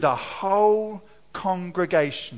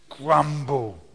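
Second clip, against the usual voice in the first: low grumbling word; 5 semitones lower than usual. Shown as a demonstration. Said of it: "what a grumble sounds like".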